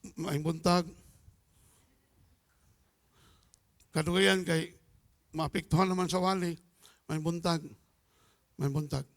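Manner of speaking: low, sour mumbled good morning; grumpy morning greeting. Retold or imitated. Pastor mimicking a sour-faced churchgoer, low grumpy greeting. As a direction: grunt the greeting like someone who swallowed something sour. Grumpy man swallowed a lime.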